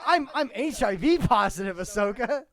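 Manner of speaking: loud laughing cartoon squawk; squawky cartoon voice.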